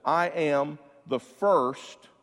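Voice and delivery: I am the first drawn out slowly; slow solemn quote. Retold or imitated. Preacher quoting Jesus, slow and solemn. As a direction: give I am the first weight and slowness. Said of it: "he says".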